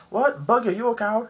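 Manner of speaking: high mock taunt; taunting guards. Guards taunting Buggy, high mocking.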